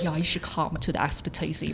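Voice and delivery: bad put-on Scottish accent. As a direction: attempt a Scottish accent, badly. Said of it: "that was a terrible Scottish accent".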